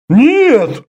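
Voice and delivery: high, loud sudden cry; outcry. A narrator's reading. Orda crying out to protest, loud. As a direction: blurt a sharp no. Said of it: "вскрикнул Орд".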